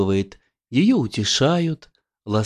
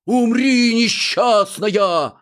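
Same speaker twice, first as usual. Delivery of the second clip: high, loud, slow mock shout; loud mocking heckle from the audience; 10 semitones higher, 4 dB louder, slower than usual. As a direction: yell it from the hall, dragging it out. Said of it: "кто-то крикнул в зале".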